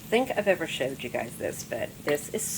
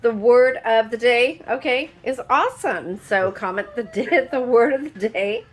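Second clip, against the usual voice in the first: excited; 7 semitones higher, 8 dB louder than usual. Real, not acted. Excited sign-off announcing word.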